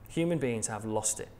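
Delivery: quiet echo to let the point land. Shown as a demonstration. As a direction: let "Human beings have lost it" sink in, hushed. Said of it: "repeated for emphasis".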